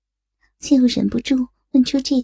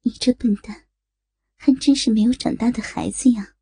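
low scolding murmur. Acted. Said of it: "低啐道".

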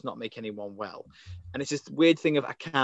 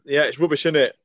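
mock moaning; 4 dB louder than usual. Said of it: "normality of just to moan".

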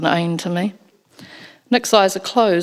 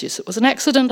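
brisk; 6 semitones higher, faster than usual. Acted. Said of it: "I say briskly".

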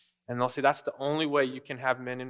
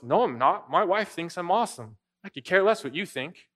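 raised, mock-indignant comeback; dismissive retort; 4 semitones higher, 4 dB louder than usual. Father to his critical buddy, mock-dismissive retort. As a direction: brush off the criticism, voice climbing as it goes.

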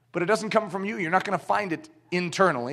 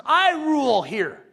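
slow, higher, gloating giant's boast; bully giant's boast; 5 semitones higher than usual. Retold or imitated. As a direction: lord it over the tiny boxer. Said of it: "He says".

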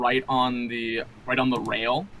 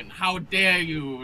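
put-on drunken shouting; 6 semitones higher, slower than usual. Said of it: "make my voice as loud as I possibly can".

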